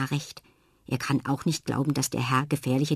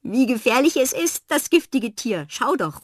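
higher, louder mock alarm; laughing call; 7 semitones higher, 6 dB louder than usual. Jana calls to Fred under the table, teasing and excited. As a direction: tease him to look. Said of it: "ruft Jana".

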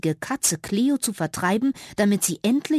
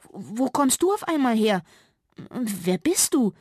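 a touch of startled squeak, slowing on the question; ask, thrown off guard; mildly startled little mouse; flustered squeak; 4 semitones higher than usual. Acted. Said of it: "piepste sie verdattert".

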